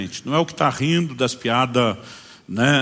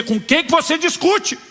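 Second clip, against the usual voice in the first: high mock question; 4 dB louder, slower than usual. Quoted question put to Cid.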